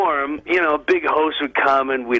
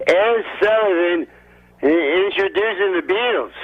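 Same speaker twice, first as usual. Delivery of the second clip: bad Ed Sullivan; 4 semitones higher than usual. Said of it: "He goes".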